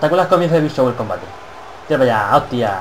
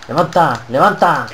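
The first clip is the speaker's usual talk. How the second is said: insistent, slightly raised command; urgent calling out; 2 semitones higher, slower than usual. Real, not acted. Gamer taunting his downed wrestler opponent, urgent calling out. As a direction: urge a downed opponent to get up.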